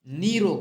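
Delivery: निरोग slowly, with long ee, "neerog"; long vowel. Shown as a demonstration. Teacher showing the long matra, निरोग slowly as "neerog". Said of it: "बड़ी का मात्रा लगाते हैं".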